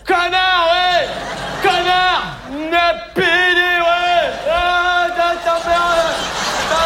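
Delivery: furious shout; angry yelling. Acted. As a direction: yell abuse at the car that drove off. Insulting a driver after a hit-and-run.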